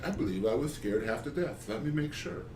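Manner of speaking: softly put-on founding-father voice, lifting at the end; lightly hammed-up, terrible historical impression; Ben Franklin. Host imagines Ben Franklin at his drawing table, terrible impression. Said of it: "a terrible Ben Franklin impression".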